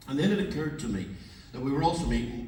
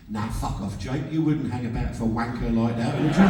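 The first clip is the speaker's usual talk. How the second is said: hammed-up scornful London bloke; 5 dB louder than usual. Fan dismissing the pop star.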